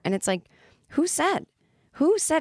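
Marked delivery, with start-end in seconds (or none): 0.9-1.4 1 incredulous who said. Real, not acted. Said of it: "self-challenge". 1.9-2.4 1 incredulous who said. Real, not acted. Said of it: "self-challenge".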